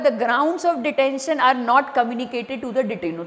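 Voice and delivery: slow, careful re-read of the line; a deliberate re-read for emphasis; reading the statement again. Acted. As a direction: quote the statement back slowly. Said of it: "इसमें simple लिखा हुआ है".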